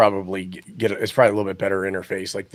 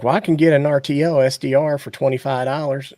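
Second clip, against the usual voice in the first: mock eager hobbyist; 6 semitones higher, 3 dB louder than usual. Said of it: "we'll talk about it, like".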